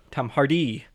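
Hardy as har-DEE; joke pronunciation. Shown as a demonstration. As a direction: push the stress in Hardy onto the end, har-DEE. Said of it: "I'll just do it with everyone".

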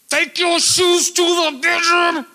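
loud, high, drawn-out yell; parent shouting. Shown as a demonstration. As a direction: holler it at the kids. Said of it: "I'm gonna speak louder at you, like my kids".

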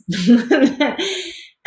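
high laugh that falls away; real laugh. Real, not acted. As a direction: laugh at your own joke. Laughs after the joke.

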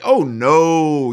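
a disdainful "Oh no" with a little extra volume. Retold or imitated. Teen answering the church lady, disdainful. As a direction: scoff it away like it's beneath you. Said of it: "I said it with, like, disdain".

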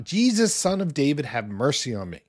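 mild mock shout, pitched high then falling away; imitated shout. Blind beggar calling to Jesus for mercy, mild retold shout. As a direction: call out high, easing down into a plea. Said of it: "he began to shout".

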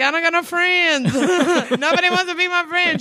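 mock crying. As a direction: whine like a friendless kid, played for laughs. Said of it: "I come home and cry like".

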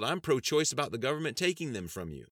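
high, loud indignant squeal. A narrator's reading. Debater answering congressman's pro-choice quip, squealing. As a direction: squeal the retort back at him. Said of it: "Halluci squealed".

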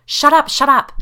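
loud, high shout over chatter; urgent shushing yell; breaking through. A narrator's reading. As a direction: cut through the noise sharply. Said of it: "Claire's voice broke through".

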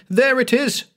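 high triumphant yell. Acted. Obsessed patient spotting the phantom house, high yell. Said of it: "he yelled".

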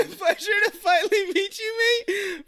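giggling through the line; fighting back giggles. Real, not acted. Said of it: "trying to spit it out fast cause I'm giggling".

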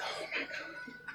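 whispered oh my god. Pretend. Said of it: "It's just like".

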